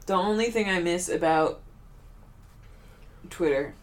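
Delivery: talking through hiccups; words broken by hiccups; hiccuping. Real, not acted. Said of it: "You sound drunk right now".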